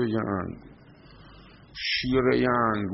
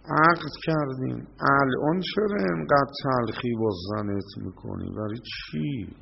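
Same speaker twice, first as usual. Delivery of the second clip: scolding; 2 semitones higher than usual. Pretend. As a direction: scold the husband for his bitterness. Scolding the quarrelsome husband. (سرزنش شوهر بدخلق)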